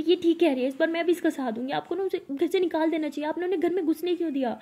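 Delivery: loud, high scolding of the aunt; a heated shout that eases toward the end; shouting at mother. Acted. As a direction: raise your voice and tell her off. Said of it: "ऐसे बहुत चिल्ला रही होती है".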